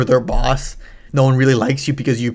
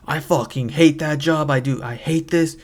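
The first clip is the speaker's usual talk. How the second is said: pent-up frustration; 3 semitones higher, slower than usual. Retold or imitated. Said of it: "all her pent up, like, frustrations came out".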